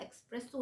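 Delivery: "إكسبريسو" with a k before the s; wrong pronunciation. Retold or imitated. Teacher citing foreigners' mistake, "إكسبريسو" with an X sound. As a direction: say "إكسبريسو" like English express plus o. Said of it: "عشان كده بتتنطق غلط".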